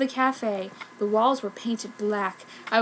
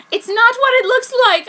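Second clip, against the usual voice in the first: sadly; 11 semitones higher, 8 dB louder than usual. A narrator's reading. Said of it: "I said sadly".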